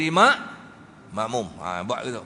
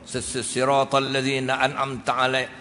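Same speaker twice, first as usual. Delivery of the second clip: stammering recitation; 3 semitones lower than usual. Shown as a demonstration. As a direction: stutter on se before siratal. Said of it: "Contoh macam ni".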